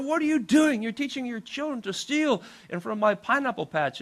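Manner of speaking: high-pitched, indignant retelling; mad scolding. Retold or imitated. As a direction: scold in mock outrage. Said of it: "I was so mad".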